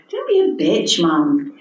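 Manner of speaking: light. Acted. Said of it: "Pam said lightly".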